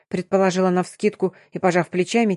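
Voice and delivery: plain reading voice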